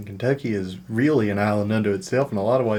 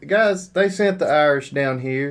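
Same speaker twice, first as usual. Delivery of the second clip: slow, higher put-on Irish voice; Irish act; 4 semitones higher than usual. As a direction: explain it as a mock Irish immigrant. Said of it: "I know you're being Irish".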